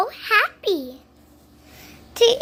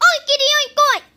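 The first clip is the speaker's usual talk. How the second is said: pig oinks; 6 semitones higher, much faster than usual. Acted. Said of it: "And I will say".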